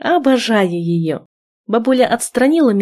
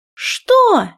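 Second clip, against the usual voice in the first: sharp, much higher startled cry; shocked what; 13 semitones higher than usual. A narrator's reading. Heroine hearing who her groom is, shocked. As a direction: jolt up in disbelief.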